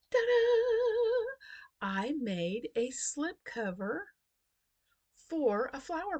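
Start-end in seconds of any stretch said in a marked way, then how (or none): 0.1-1.3 high, loud reveal; excited ta-da. Real, not acted. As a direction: show it off with a flourish. Reveals the finished project.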